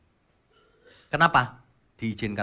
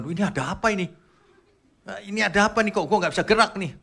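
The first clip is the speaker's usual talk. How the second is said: a higher, bewildered voice asking what is happening; confused dead person; 9 semitones higher, 5 dB louder, faster than usual. Pretend. Preacher imagines the dead hearing the crying, confused. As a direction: play a corpse puzzled that it cannot move. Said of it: "Bayangin kalau dia dengar".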